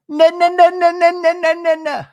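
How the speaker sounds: high, loud string of staccato no's; comic high-pitched mock protest; rapid-fire denial. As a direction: squeal a run of no's on one high note.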